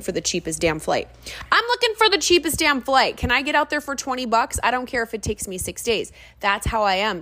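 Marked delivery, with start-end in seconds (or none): 1.5-6.1 high, hammed-up bargain-hunter voice; comic self-parody, high-pitched; desperate bargain hunter. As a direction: pitch it up, playing a shameless cheapskate. Acts out herself as bargain hunter.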